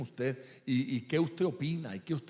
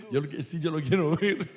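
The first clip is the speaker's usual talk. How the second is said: "ver" lifted with louder, eager push; much louder retake; 2 semitones higher, 9 dB louder than usual. Retold or imitated. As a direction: say it again, far louder and keener. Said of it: "le dije".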